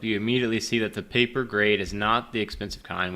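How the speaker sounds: ordinary talk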